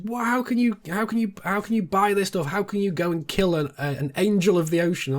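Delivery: high, hammed-up outrage of the wife; mock outraged wife. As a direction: play the wife scandalised by whale meat, mock-angry. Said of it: "she's flipping her lid at this".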